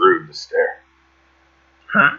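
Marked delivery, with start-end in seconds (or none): 0.0-0.8 muttered, lower pitch. A character turns to a staring creature and speaks to it, muttered. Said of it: "I turn to it and mutter".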